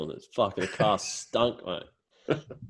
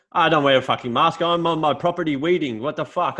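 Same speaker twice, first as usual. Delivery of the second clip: higher, louder mock outrage; indignant old farmer; 7 semitones higher, 4 dB louder than usual. Old farmer defending himself to the neighbour, indignant. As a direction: huff it like an offended old man. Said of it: "He goes".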